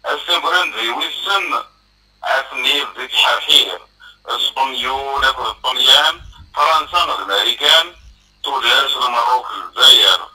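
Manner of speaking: measured verse delivery with pauses between lines; spoken poetry in rhythmic phrases; poem recitation. Acted. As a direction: recite it line by line, pausing after each.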